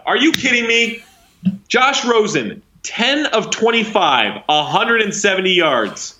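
high-pitched, drawn-out disbelief; incredulous rant. Real, not acted. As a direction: read out the stats as if they are an outrage. Ranting in disbelief at Rosen's stats.

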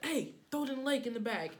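panicked dealer voice. Retold or imitated. Dealer panicking about raids.

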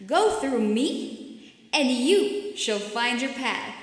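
lightly booming big-mouth voice; hint of a looming monster; booming arrogant alien overlord. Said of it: "a booming voice bellowed".

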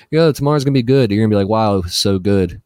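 put-on light Trump-style boasting, no accent; hint of Trump phrasing; Trump line of speaking. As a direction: brag like Trump without the accent. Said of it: "hit him with that Trump, the Trump's line of speaking".

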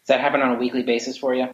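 tinny speakerphone sound; like talking through a speakerphone. Real, not acted. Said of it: "now you sound like you're on a, a speakerphone".

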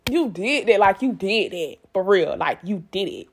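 proud self-praise. Retold or imitated. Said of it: "I felt like".

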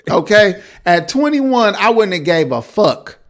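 high, loud, laughing rant; excited rant. Real, not acted. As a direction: get worked up and laugh through it. Hyped, laughing rant about being twenty-one.

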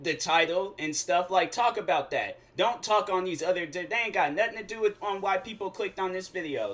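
mock telling-off, a touch of anger; mildly mad. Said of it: "I got mad".

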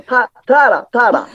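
teeth not shown, slurred; Tahara impression. Shown as a demonstration. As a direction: demo of the toothless idol. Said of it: "歯をね、言わない".

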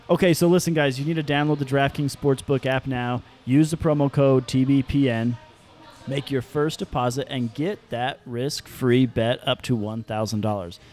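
upbeat sponsor read. Acted. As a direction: sell it like a radio ad. Reads ad again.

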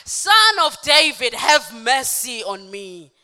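loud, drawn-out plea, falling at the end; crying out. Acted. Blind man calling to Jesus as he passes, crying out. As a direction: call out loudly and slowly for mercy. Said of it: "he cried out saying".

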